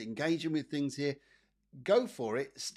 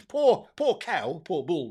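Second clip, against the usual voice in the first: mock pity; 5 semitones higher, 9 dB louder, slower than usual. Real, not acted. Pitying the cow mid-joke.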